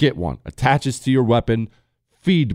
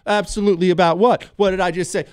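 flustered husband; 8 semitones higher, faster than usual. Retold or imitated. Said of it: "follow-up question".

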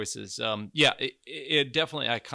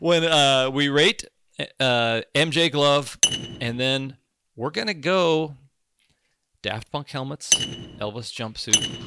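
put-on loud, slow, hammy Cockney accent; bad Cockney accent; 2 semitones higher, 7 dB louder, slower than usual. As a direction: belt it out in mock Cockney. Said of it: "when I have a bad Cockney accent".

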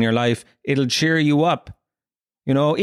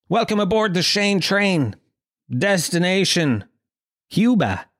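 lightly put-on announcer, raised pitch; train announcer; 5 semitones higher than usual. Podcaster welcoming listeners aboard the Shane train, mock announcer voice. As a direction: announce the destination with a slow, deliberate build.

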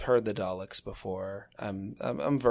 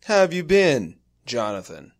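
creepy robocaller; 4 dB louder than usual. Retold or imitated. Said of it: "it's very menacing".

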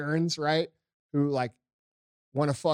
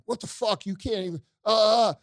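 higher-pitched, sputtering imitation of an outraged hardliner; mock exasperation; 6 semitones higher than usual. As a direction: mimic someone too angry to finish. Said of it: "hardcore Republicans are like".

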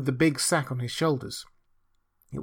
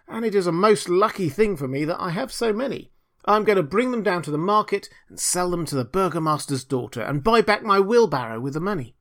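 higher, earnest simple fellow; eager little Hans; 5 semitones higher than usual. Acted. Hans telling the miller his plans, eager and simple. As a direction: chatter on in guileless good cheer.

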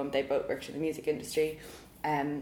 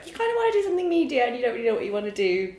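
higher, quicker voice for a mum's suggestion; imitating mum; 8 semitones higher, 5 dB louder, faster than usual. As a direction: voice mum pitched up and chatty. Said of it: "my mum was kind of like".

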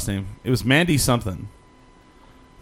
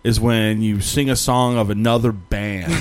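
rock-concert lecturer; slower than usual. Retold or imitated. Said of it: "a rock concert one oh one".

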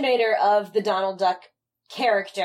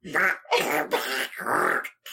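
duck squawk; 6 semitones lower than usual. Shown as a demonstration. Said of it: "That was close enough".

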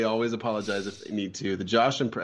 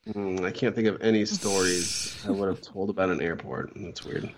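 mock innocence; 4 semitones lower than usual. Feigning ignorance about airport stories.

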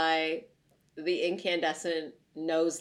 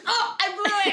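laughing, high and louder; 11 semitones higher, 4 dB louder, faster than usual. Real, not acted. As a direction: laugh through the oops. Accidentally spoils her own Patronus.

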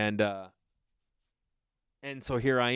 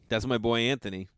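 usual speaking voice

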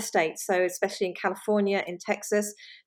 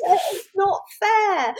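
laughing through the words; giggling mock complaint; 12 semitones higher, 5 dB louder, slower than usual. Real, not acted. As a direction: laugh it off, amused and mock-aggrieved. Laughing reply to host's joke.

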